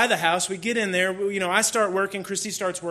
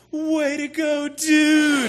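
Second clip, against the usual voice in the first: higher, louder cheer from a buddy; congratulating friend; 9 semitones higher, 7 dB louder, much slower than usual. Retold or imitated. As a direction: cheer him on like a happy pastor friend. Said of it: "And he goes".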